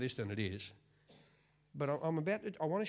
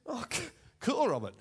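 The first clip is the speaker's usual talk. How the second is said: startled cheer; 9 semitones higher, 6 dB louder than usual. Retold or imitated. Surprised reply to boy.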